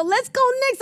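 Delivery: high-pitched delighted retort; excited reply. Retold or imitated. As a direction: answer it bursting with joy. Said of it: "And I'd go".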